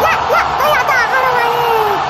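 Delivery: high, drawn-out yells at the match; excited shouting turning to long anguished cries; football fan shouting. Acted. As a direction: scream the player on, then wail at the miss. Yelling at the televised match.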